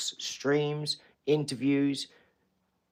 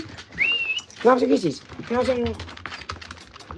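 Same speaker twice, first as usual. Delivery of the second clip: very high, slow cooing plea; drawn-out sweet coo for kisses; slow baby talk; 13 semitones higher, much slower than usual. Acted. Owner begging the puppy for kisses, slow high baby talk.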